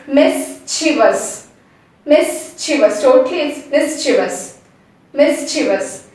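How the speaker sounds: "mischievous" as "MIS-chi-vus", no stress on the ending; measured "mischievous", finishing in a plain "vus"; flat, correct pronunciation. Shown as a demonstration. Teacher drills the whole word, flat correct ending. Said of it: "It's just flat".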